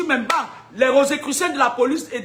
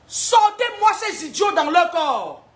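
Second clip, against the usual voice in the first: drawn-out forceful order to cast out; slow commanding shout; 3 semitones higher, slower than usual. Real, not acted. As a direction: drag each word out like an exorcism command. Preacher commands spirits out.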